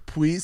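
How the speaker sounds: "Please" with a w for the l, "pwease"; squeaked baby talk. A narrator's reading. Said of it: "he squeaked".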